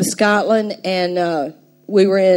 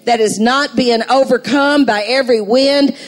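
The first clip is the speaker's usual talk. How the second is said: fervent preaching; 3 semitones higher, 3 dB louder than usual. Acted. Builds to full preaching.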